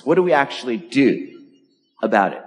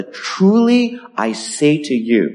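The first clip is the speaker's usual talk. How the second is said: slow, higher solemn declaration; solemn preface; 5 semitones higher, much slower than usual. Retold or imitated. Preacher quoting Jesus to the congregation, solemn. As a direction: draw it out as a weighty quoted pronouncement. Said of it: "a solemn preface".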